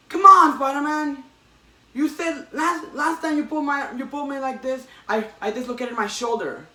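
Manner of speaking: high, loud, whining complaint; whiny robber. Retold or imitated. Robber griping to Spider-Man about his shoulder, high and whiny. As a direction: squeal it like a petty crook who got hurt.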